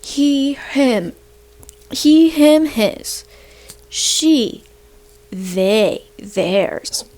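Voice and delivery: patronising classroom lilt; mocking a teacher drilling kids. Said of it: "You're telling kids".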